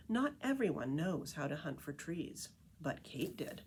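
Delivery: lively picture-book read-aloud voice; story narration. A narrator's reading. Reading The Tree Lady to listeners, storytelling narration. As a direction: read it like a storyteller to a group of kids.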